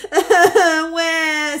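high, loud call across the water. A narrator's reading. Little beaver calling across the pond, loud high call. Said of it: "said Little Beaver".

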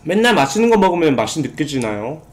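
talking between bites; speaking while chewing. Real, not acted. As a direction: mouth partly full. Seen 1: Lips move around food from 0.2 to 2.9 s, then he talks normally.

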